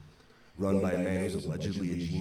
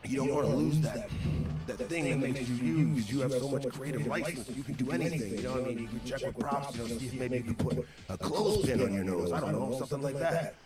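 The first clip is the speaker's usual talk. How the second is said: higher-pitched imitation of a coaxing boss; lightly voiced boss talking someone round; Vince; 4 semitones higher than usual. Boss selling his wrestler on creative license, lightly imitated coaxing. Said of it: "And he's like".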